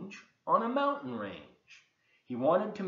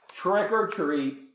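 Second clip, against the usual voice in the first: slow, loud sing-song call; trick-or-treaters; 6 semitones higher, 7 dB louder, slower than usual. Acted. Three princesses at the door calling out, slow and loud. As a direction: chant it like kids at the door. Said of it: "when they said".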